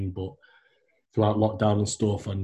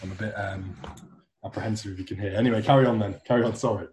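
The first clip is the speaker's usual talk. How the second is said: chewing while talking. Real, not acted. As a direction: mouth full of cereal. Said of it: "I've just got a post-workout Cocoa Pops here".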